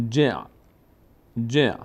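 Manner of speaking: «جع» as "je" closing into a throaty ayn; joined sukun syllable. Shown as a demonstration. Teacher demonstrating silent ayn, joined to jim. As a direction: shut جع off in the throat. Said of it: "باز نیاز داره به کسرهٔ جیم".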